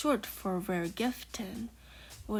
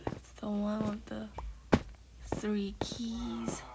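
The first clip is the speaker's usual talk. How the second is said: whispering. Real, not acted. Whispered gameplay chat throughout.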